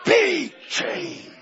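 shouted be changed; high shouted command. Acted. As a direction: proclaim it to the heavens. Second take shouted high.

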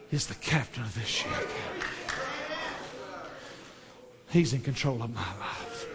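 low, very soft close; hushed assurance. Real, not acted. Preacher affirming God controls his life, hushed. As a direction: let the refrain sink down reverently.

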